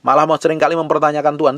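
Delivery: ordinary talk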